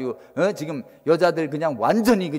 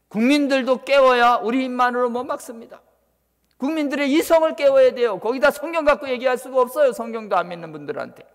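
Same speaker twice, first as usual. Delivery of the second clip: high, raised-voice exhortation; urgent preaching; 9 semitones higher, 4 dB louder than usual. Real, not acted. Preacher urging believers to wake the public, urgent preaching. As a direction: press the congregation to act, voice lifted.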